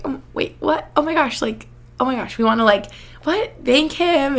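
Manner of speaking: stunned reaction, lightly acted out; retold astonishment. Retelling their shocked reaction.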